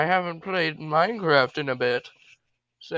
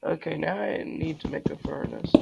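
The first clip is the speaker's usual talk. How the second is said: whisper; 5 dB quieter than usual. Real, not acted. Quietly planning next step.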